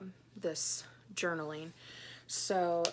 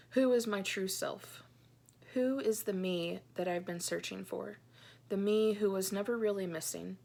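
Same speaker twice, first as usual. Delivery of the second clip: earnest, measured reading of a private journal; heartfelt journal reading. Acted. Reads her journal entry aloud.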